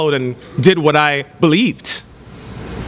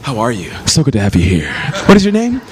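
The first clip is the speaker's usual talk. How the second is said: welcoming maitre d'; 8 semitones lower than usual. Retold or imitated. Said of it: "the maitre d' is like".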